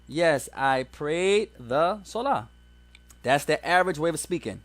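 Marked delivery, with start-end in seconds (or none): 0.1-2.5 slow, deliberate example answer; drawn out so students can copy; slow model answer. Shown as a demonstration. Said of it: "The average person is gonna say".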